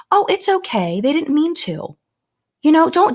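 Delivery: high, sugary, dismissive mock soothing; mock sweet reassurer. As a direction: brush off the victim in a cloying high voice. Mock-soothing excuse for the driver.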